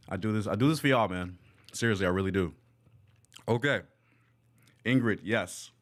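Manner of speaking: talking while chewing; mouth full. Real, not acted. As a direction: speak through a mouthful. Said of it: "talking with my mouth full of food".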